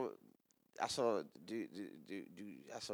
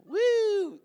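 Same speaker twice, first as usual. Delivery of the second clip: high gleeful woo, much higher and louder; much higher playful whoop; excited whoop; 9 dB louder than usual. Retold or imitated. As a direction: whoop as the calf jumps out. Imitating a calf leaping out.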